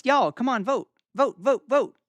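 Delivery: playful urging. Real, not acted. Urging the chat to vote.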